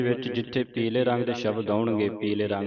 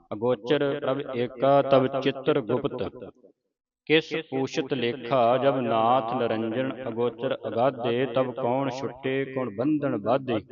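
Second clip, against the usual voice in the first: slow, deliberate recitation of verse; scripture recitation; slower than usual. Shown as a demonstration. Teacher leads the congregation through the verses, slow recitation. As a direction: draw out each phrase, pausing between them.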